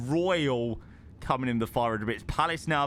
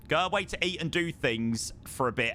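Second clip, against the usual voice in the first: whisper. Retold or imitated. Reading chat aloud.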